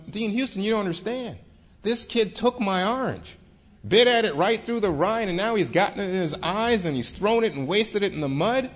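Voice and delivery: retold complaint, pitched high throughout; indignant self-defence. Marshall protests to the Dean.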